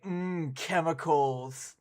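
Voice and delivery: slow, drawn-out "Mm, chemicals" like tasting something fine; mock savouring. Teasing a British chatter with a mock food review, slow savouring. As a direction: savour the word chemicals, slowly. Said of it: "and just be like".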